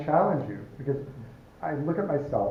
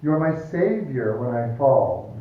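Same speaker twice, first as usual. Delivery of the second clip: ironic emphasis; 5 dB louder, slower than usual. Retold or imitated. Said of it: "This is very subtle".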